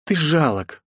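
cold, high princess voice; cold contempt. A narrator's reading. Princess scorns her father, coldly. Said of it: "холодно ответила княжна".

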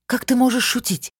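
high, outraged question; protest, scandalized by the joke; indignant. Acted. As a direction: squeamish indignation. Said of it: "возмутилась Алишана".

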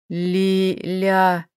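low, soft strangled call; a throttled croak; hoarse wheeze. A narrator's reading. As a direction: rasp her name from behind, choking. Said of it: "прохрипел сзади Айрол".

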